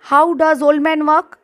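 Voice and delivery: deliberately slow question; teacher repeating slowly for students. Shown as a demonstration. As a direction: space the words out for the class. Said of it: "আমি আর একবার repeat করি".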